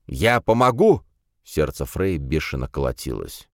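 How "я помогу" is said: shouted out of breath; breathless shout. Acted. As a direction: yell it, gasping. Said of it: "крикнул он, задыхаясь".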